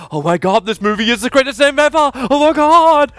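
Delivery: rising, high-pitched gushing; mock awe. Acts out amazed movie viewer.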